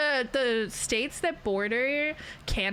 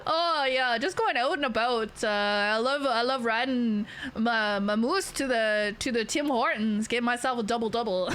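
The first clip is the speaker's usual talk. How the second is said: put-on stereotypical Canadian accent. Streamer mocking how people think Canadians talk, hammed-up Canadian accent. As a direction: ham up a folksy Canadian accent, laugh creeping in at the end. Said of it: "Like, I don't talk like that".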